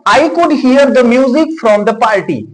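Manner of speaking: slow, careful English example; deliberate teacher read; slow example sentence. Shown as a demonstration. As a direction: spell each word out slowly for learners. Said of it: "For example".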